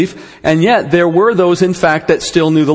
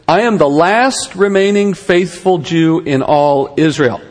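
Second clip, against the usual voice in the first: slow, half-mocking whine of self-pity; slower than usual. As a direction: play up his pity party, slowed and wry. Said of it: "God broke out the world's smallest violin".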